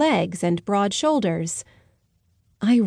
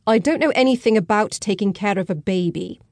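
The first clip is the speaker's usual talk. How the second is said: angry tone. Acted. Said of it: "in an angry tone".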